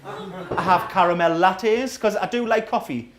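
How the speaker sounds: low, sarcastic heckler voice; mock annoyed punter. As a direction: play the miffed coffee lover. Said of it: "People get angry about this".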